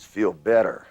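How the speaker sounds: "feel better" said as a firm, direct command. Shown as a demonstration. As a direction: make "feel better" sound like an order. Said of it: "sound like it's a command".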